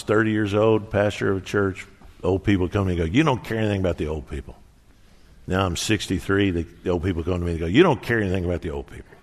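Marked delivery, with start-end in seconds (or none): 3.1-4.6 quick, mildly cranky grumble; cranky complaint. Retold or imitated. Old people complaining to their young pastor, mock cranky. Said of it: "people get cranky as they get older". 7.7-9.1 fast mock grumble, jumping up on the first words; cranky complaint. Old people complaining to their sixty-three-year-old pastor, mock cranky. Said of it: "people get cranky as they get older".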